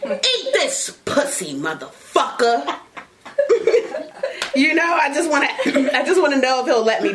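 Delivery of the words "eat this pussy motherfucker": mock dominant command. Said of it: "I'm gonna ask him, like".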